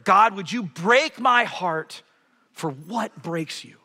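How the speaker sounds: slow earnest prayer. Shown as a demonstration. Voices a sample prayer, slow.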